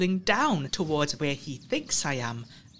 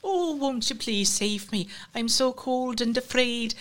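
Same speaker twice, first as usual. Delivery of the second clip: higher, slow, hammed-up pitiful plea; mock crying child; 7 semitones higher than usual. Trickster in the hole mocking a scared child, hammed-up pleading. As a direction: fake a frightened little kid's whimpering plea. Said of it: "I'm still down there crying".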